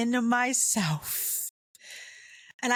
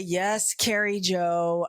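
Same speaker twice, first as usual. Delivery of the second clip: slow imitation of a weary, irritated father; mildly irritated dad; slower than usual. Dad to his daughter while driving, possibly irritated. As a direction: stretch the name out with a touch of annoyance. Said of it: "Oh, is that irritation?".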